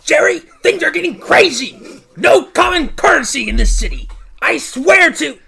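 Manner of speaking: worked-up complaint, punching key words; agitated rant. Acted. George bursts in complaining to Jerry about the city, agitated. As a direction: rant with mounting exasperation. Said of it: "Pardon my tone".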